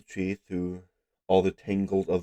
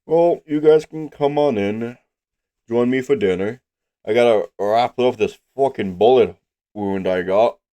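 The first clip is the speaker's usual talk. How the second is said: gruff hermit voice; 3 semitones higher, 6 dB louder than usual. Acted. GM voices the tree dweller.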